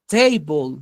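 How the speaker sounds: "table" starting on a consonant sound; consonant onset. Shown as a demonstration. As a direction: say "table" with a clear opening T. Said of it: "al pronunciarla suena como una consonante". ("table" con sonido inicial de consonante)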